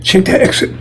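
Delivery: "Check that exit" whispered, unvoiced; whispered repeat. Shown as a demonstration. Preacher repeating the sign's warning to the congregation, whispered. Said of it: "Yes, I said".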